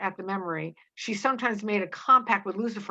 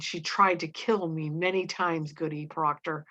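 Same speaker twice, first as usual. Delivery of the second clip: indignant edge; 2 semitones lower than usual. Acted. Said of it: "with an indignant edge".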